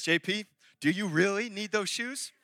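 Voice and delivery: wife's serious final asking; not playing games. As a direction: stretch the question as a last warning. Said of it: "she ain't playing games".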